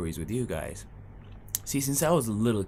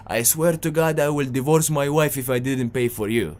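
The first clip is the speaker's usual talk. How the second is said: higher, louder, heated mock oath; hot-blooded Jali oath; 5 semitones higher, 5 dB louder than usual. Jali friend on the bus swears he'll pay, heated mock oath. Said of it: "the most famous Jali sentence".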